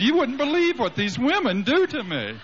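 high, laughing mock protest; mock complaint. Son complaining to his father about the ladies: high mock protest. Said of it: "And I said".

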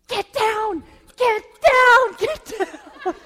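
high, loud hissed commands; mock spy command. Husband playing spy orders wife down, loud mock shout. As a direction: bark it like an action-movie agent. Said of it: "he's like".

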